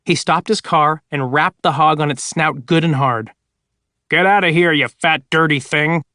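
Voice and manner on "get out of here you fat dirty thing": mild shout. Acted. Arthur shoos the hog from his car, mild shout. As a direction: tell the hog off, lightly raised. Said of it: "he shouted".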